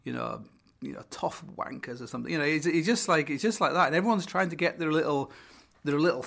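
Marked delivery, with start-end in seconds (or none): 0.0-2.3 high, put-on plummy presenter voice, fading; mock the grand introduction; hammed-up posh radio host; posh presenter intro. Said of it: "they're like".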